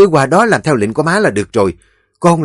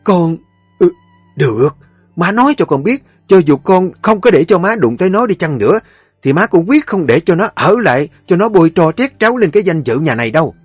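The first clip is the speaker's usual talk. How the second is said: loud, high fast arguing; mother and son quarrelling over the wife, angry; heated quarrel; 5 semitones higher, 3 dB louder than usual. Acted. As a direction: fight back hard.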